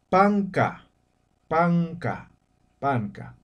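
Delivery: "panka" con la n como ng, lento y claro; pronunciación aimara. Shown as a demonstration. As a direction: di "panka" marcando bien las sílabas. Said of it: "En Aymara se dice". (enseñando a decir "panka" en aimara)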